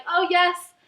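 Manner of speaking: hammed-up book bashing; mock rant reviewer. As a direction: act out a gleeful hater. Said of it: "making a rant review like".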